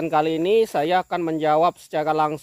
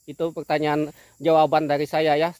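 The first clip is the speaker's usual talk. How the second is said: ordinary talk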